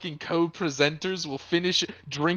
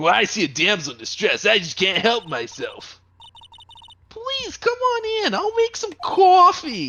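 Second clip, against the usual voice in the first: dude-bro voice, high and swooping; 5 semitones higher than usual. A player voicing their character in a scene, bro voice. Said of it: "You were just doing like a bro voice".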